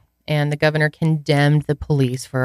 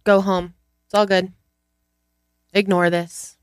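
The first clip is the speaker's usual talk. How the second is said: mocking officials; 3 semitones higher than usual. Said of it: "How can they say".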